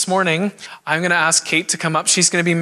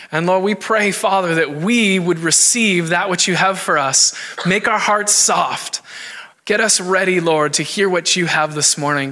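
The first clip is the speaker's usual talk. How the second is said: prayer. Real, not acted. Pastor prays for the preacher.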